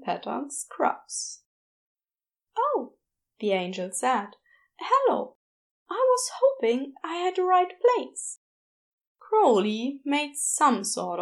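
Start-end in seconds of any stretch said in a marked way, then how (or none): 2.6-2.9 high, bright surprised oh; a little startled, lifted oh; high gentle surprise; Aziraphale surprised. A narrator's reading. 4.8-8.4 higher, gentle shy greeting; politely hopeful, a bit higher; shy Aziraphale. A narrator's reading.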